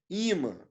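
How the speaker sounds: Imã said Í-mã, falling after the I; stress on first syllable. Shown as a demonstration. Teacher confirming the answer, first-syllable stress on Imã. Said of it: "A sílaba tônica não é nasal".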